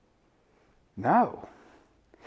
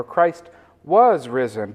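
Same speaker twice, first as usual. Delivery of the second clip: slow, with "was" drawn out; stress on WAS; 3 semitones lower, slower than usual. Shown as a demonstration. Quoting people who correct the greeting, stress on WAS. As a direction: lean on "was" as the substituted word. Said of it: "where people try to correct it".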